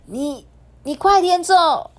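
high, loud stammered cry; high urgent yell; urgent shout. Acted. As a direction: shout at him to go now. Fox fairy shields the wolf.

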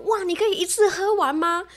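high teasing classmate voice; goading him to chug it; high mock challenge. Classmates challenge in retold story. (高声起哄的同学)

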